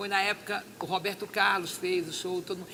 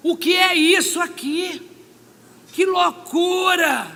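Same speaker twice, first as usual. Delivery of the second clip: slow, high and loud outcry of disbelief; exasperated shout; 7 semitones higher, 10 dB louder, slower than usual. Retold or imitated. Crying out to God about the crazy world, slow exasperated shout. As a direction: drag it out and cry it to the heavens.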